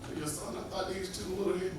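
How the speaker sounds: mock little old lady. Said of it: "She said".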